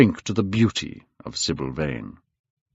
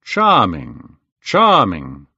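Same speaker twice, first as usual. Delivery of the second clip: louder delighted exclamation; cried out; 2 semitones lower, 6 dB louder, much slower than usual. A narrator's reading. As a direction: burst out in admiration. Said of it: "cried Lord Henry".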